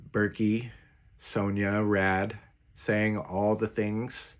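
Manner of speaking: slow, drawn-out saying all the things. Shown as a demonstration. Training his AI voice, saying all the things slowly. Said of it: "maybe I want to talk slower".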